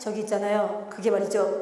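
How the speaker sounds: low, flat, slack, droopy, listless drone with no energy. Showing how a host or lecturer can sound, slack, low-energy voice. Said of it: "이렇게 얘기하면 루즈하고 다운되고 뭔가가 에너지가 안 나잖아요".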